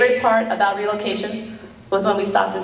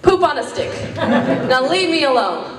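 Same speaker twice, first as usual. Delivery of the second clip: mom's saying; 4 semitones higher than usual. Retold or imitated. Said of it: "one of my mom's favorites".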